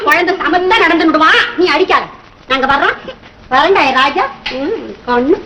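put-on low, coaxing goodbye to a crying child; gently reassuring; soothing. Consoling a child just beaten.

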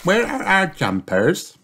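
put-on high little girl piglet asking; child piglet wondering where the jumpers are; Peppa's voice. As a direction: ask Daddy in a small high voice.

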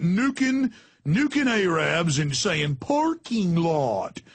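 put-on slow drawled Southern good old boy; mock a Southern good old boy, dragging the words; slow hammed-up Southern twang; Southern accent. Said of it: "not fair to do Southern accents".

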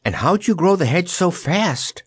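put-on high, projected girlish question; mild high call. A narrator's reading. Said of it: "called Dorothy".

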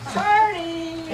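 delighted exclamation before laughing; excited cheer. Real, not acted. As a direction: cheer it like an invitation. Gleeful exclamation then laughter.

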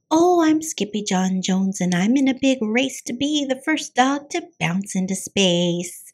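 bouncy cartoon cat hero; cartoon kitten voice. Skippy's voice in story.

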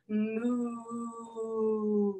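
put-on playful moo for the kids; lightly voiced cow; mock cow moo. Cow pose animal sound.

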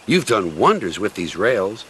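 lightly voiced little engine; Skarloey.

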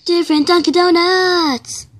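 loud high outburst; yelling. Acted. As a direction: yell it in disbelief. Customer yells destination.

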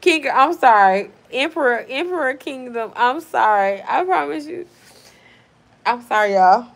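loud, pleading sorry to chat; over-the-top loud apology. Real, not acted. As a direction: beg forgiveness, raising the voice. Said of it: "apologising to chat".

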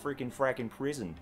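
badly faked Italian accent; horrible Italian accent. Shown as a demonstration. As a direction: have a poor go at an Italian accent. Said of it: "my horrible Italian accent attempt".

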